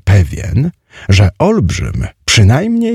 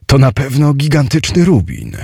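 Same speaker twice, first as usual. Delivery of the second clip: high-pitched, pleased exclamation; delighted; 6 semitones higher than usual. A narrator's reading. Hero rejoices at the red jewel he found, delighted. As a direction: raise the pitch in glad wonder. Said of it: "ucieszyłem się".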